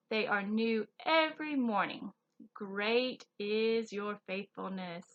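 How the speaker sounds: slow, careful Bible verse reading; scripture reading. Acted. Teacher reading scripture to kids, slow and careful. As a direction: read the verse slowly to the children.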